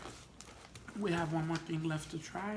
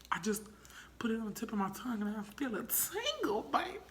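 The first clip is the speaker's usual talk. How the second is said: high-pitched; 5 semitones higher than usual. Real, not acted. Tingle on tongue, addressing partner.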